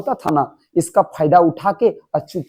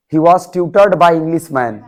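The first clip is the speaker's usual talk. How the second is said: slow dictation; much slower than usual. Shown as a demonstration. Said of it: "slow model sentence to class".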